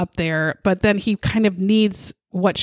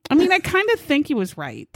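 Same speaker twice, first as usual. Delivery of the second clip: laughing; 6 semitones higher than usual. Real, not acted. Laughs at own joke.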